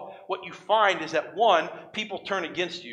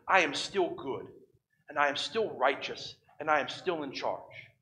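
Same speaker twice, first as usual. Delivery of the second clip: reassuring God. Acted. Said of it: "here's the conversation God has with Habakkuk".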